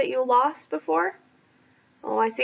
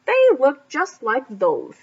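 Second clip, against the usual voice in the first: slow, louder, suspicious; suspicious growl; 6 dB louder, slower than usual. Acted. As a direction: lean in and accuse him slowly. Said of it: "growled suspiciously".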